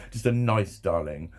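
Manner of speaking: nice darling. Shown as a demonstration. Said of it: "not a patronising one".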